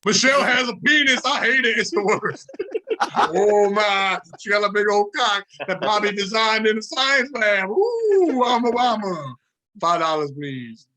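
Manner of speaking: lightly hammed-up put-on voice; absurd Obama voice. Continuing absurd Obama act.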